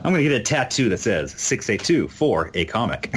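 talking through laughter; chuckling as he jokes; laughing. Real, not acted. Laughing while joking.

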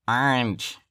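put-on Michigan accent, talking through the nose; nasal Michigan accent. Mimicking Michigan schoolmates, nasal accent. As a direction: imitate a nasal Michigan "orange". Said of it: "everybody sounds so nasally".

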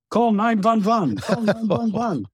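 put-on frantic high German-accented cry for help, w as v. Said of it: "and with a German accent".

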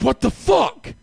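angry shout. Retold or imitated. Waking from the dream and yelling at his wife, outraged. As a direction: blurt it out furious.

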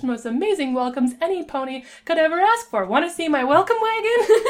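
bubbly, bouncing high-pitched chatter; hyper pony. Acted. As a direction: gush a welcome, building to a high excited finish. Hyper pink pony's gushing welcome.

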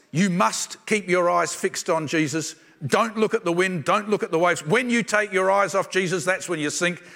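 loud, insistent mock-sermon warning; imitating preachy admonition. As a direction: drive each command home loudly, as a finger-wagging preacher. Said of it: "they focus on things like this".

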